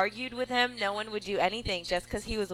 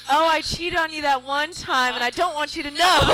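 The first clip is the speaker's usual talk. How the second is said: laughing mock confession; 8 semitones higher, 6 dB louder than usual. Bride mock confessing a cheat, laughing.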